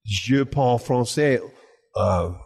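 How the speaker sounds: put-on halting French with a rough accent; poor spoken French. Telling French diners he speaks little, halting French accent. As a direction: grope slowly for each French word. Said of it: "I speak French very poorly".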